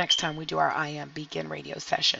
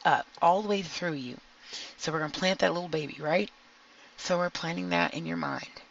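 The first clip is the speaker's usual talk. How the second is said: soothing guided meditation voice; calm grounding exercise. Acted. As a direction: guide them gently through the grounding.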